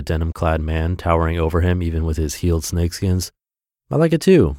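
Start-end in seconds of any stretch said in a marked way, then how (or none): 3.9-4.6 put-on Japanese accent. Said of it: "with a thick Japanese accent".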